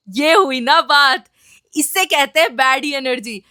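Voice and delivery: triumphant cheer. Retold or imitated. Triumphant after mom's scolding.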